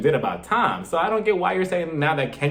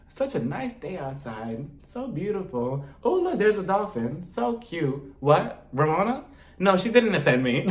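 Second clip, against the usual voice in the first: softer, slow, airy daydreaming; mock oblivious; 2 semitones higher, 3 dB quieter than usual. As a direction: act dreamily distracted on purpose. Cynthia pretending not to hear.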